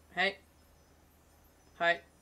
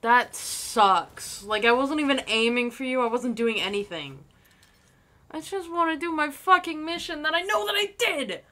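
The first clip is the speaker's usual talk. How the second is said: loud, heated complaint; angry rant; 4 semitones higher, 7 dB louder than usual. Real, not acted. Gamer ranting at a killer, loud and furious. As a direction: vent the unfairness at full volume.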